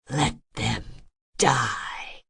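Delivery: put-on a bitter old father's snarl. A narrator's reading. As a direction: spit it out with contempt. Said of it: "he snarled".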